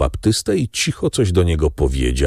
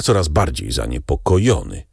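plain reading voice

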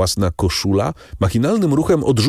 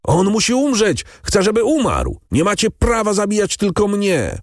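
frantic screaming; 14 semitones higher than usual. A narrator's reading. Condemned Andrea screaming at the crowd, frantic. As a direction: scream it wildly, without pause. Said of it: "Skazany wrzeszczał bez przerwy".

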